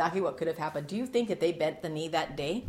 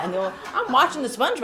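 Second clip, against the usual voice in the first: laughing; 7 semitones higher, 7 dB louder, faster than usual. Real, not acted. Laughing at own anecdote.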